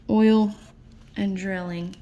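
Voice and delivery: talking through a yawn. Real, not acted. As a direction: stretch it out mid-yawn. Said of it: "Sorry, I'm yawning".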